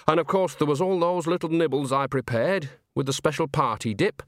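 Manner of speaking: lightly voiced chatty witch; a hint of folksy reminiscing; Nanny, chatty. Nanny tells Granny about the party nibbles, lightly chatty.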